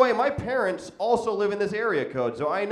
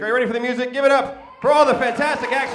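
crowd rally shout; 4 semitones higher, faster than usual. Real, not acted.

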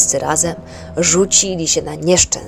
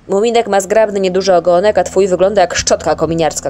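shout; 5 dB louder than usual. Acted. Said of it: "krzyknął Migotek".

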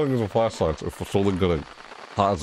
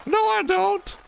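mock disgust; slower than usual. Real, not acted. Sarcastic reversal, high voice.

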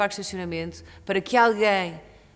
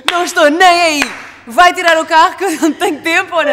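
loud, high, impatient demand; brazen mock shouting; 8 semitones higher, 15 dB louder than usual. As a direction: re-enact yelling at a driver to move. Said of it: "digo assim com uma lata". (a gritar com lata, impaciente)

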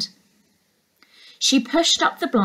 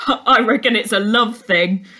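surfer; 4 dB louder than usual. Acted. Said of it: "one of the surfers was saying".

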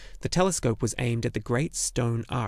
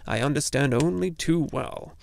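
grumbling; 3 semitones higher than usual. Acted. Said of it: "the little man grumbled".

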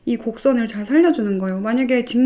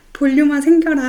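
a louder little chant at the hair; playful incantation; 5 semitones higher, 6 dB louder than usual. Pretend. Pinching hair, chanting for volume, playful. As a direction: cast it like a spell on the hair. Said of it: "하면서 이렇게".

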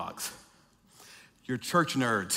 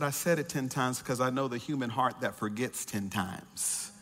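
voice of the Spirit; 5 semitones lower, 5 dB quieter than usual. Retold or imitated. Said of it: "the Spirit spoke to me and said".

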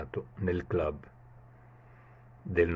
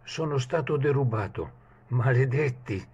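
shouted curse; 5 semitones higher than usual. Acted. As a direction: yell it out in outrage. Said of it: "gridò".

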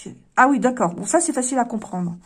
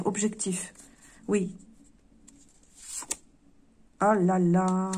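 ordinary talk, nothing marked

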